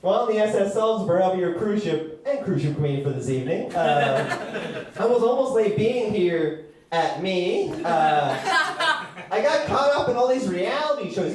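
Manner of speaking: a cruise ship doing stand-up, hammed-up; lightly voiced boat comic; cruise ship comedian. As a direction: emcee voice of a talking ship. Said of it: "all you guys hear is".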